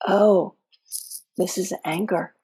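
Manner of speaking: name it with gentle curiosity; curious, interested tone. Shown as a demonstration. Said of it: "the voice is gonna sound like this".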